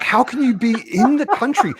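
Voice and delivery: incredulous retelling. Retold or imitated. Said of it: "I was like".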